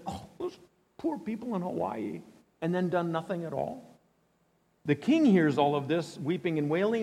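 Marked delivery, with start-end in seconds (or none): 0.1-2.2 mock pity. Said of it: "if our nation had just said".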